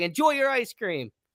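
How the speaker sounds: high, loud yelled-out calling. Retelling what a Jets player yelled to the crowd: imitating someone yelling. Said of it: "he's yelling out, he's yelling to the crowd".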